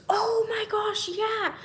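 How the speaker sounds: breathy excited gasp, slow. Retold or imitated. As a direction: gush over the picture. Girl excited about picture.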